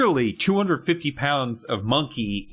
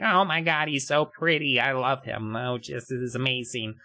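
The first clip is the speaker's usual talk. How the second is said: 3 dB quieter than usual. Acted. Friend gushes at the furry man.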